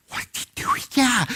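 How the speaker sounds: high, startled cry of disbelief; shocked wife. Retold or imitated. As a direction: gasp it out like she can't believe it. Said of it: "she convulsed".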